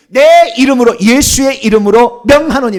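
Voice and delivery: loud, emphatic scriptural proclamation; solemn command. Retold or imitated. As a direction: proclaim it with full authority. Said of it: "주님께서 뭐라고 했느냐".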